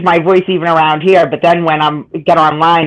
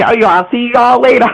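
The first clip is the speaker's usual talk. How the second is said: Southern y'all; 5 semitones higher than usual. Retold or imitated. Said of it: "here I am saying".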